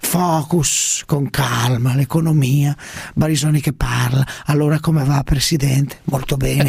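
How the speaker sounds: measured, pausing politician parody; Prodi. Acted. Parody statesman imagining a calm economics interview, measured and halting. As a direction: dole out short phrases with placid pauses. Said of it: "Prodi, grazie".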